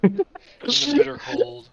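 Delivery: high, loud, slow, laughing; laughing callback. Real, not acted. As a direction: squeal it through laughter.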